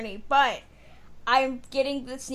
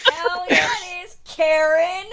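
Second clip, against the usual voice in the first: loud whooping cheer through laughter; laughing shout; 4 semitones higher, 7 dB louder than usual. Real, not acted. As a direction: shout it out, cracking up. Teasing reply to co-host.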